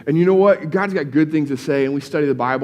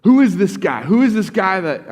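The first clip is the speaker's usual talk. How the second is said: louder, agitated questioning; upset demand; 5 semitones higher, 4 dB louder than usual. Retold or imitated. Pharisees confronting the healed man, upset and loud. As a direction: demand it, indignant and pressing. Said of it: "Pharisees get all upset".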